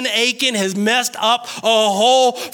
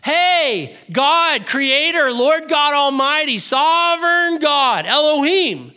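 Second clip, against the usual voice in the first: blaming God; 3 semitones higher than usual. Acted. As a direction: pile up the titles, then lay the blame. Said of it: "Joshua blamed God".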